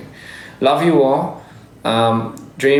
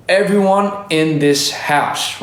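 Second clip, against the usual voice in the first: hype call out; 5 semitones higher, much slower than usual. Real, not acted. Hyping up fans.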